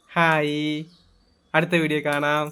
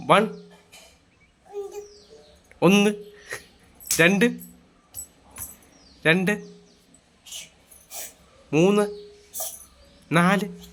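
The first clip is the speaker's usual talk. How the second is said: counting aloud; 4 semitones higher, much slower than usual. Pretend. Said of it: "ഒന്ന്, രണ്ട്, മൂന്ന് ചെല്ലിക്ക്".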